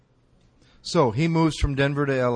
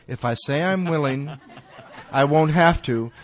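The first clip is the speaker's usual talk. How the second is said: laughing through it. Retold or imitated. Laughing at his own thought.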